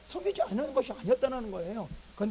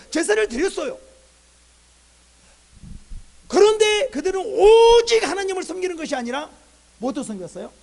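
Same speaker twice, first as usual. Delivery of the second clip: loud, raised preaching voice with punched openings; forceful preaching; 6 semitones higher, 13 dB louder than usual. Real, not acted. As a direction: drive the point home to the congregation. (힘 있게 외치는 설교)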